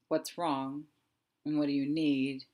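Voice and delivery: gentle, unhurried questions; soft asking. Shown as a demonstration. Coach gently asks her fear what's wrong. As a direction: ask tenderly what it needs. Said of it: "there's a softness in what's wrong".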